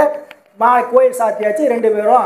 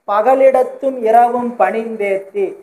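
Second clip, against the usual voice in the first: slow, measured verse line; hymn recitation; slower than usual. Shown as a demonstration. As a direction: recite the quoted line with stretched syllables.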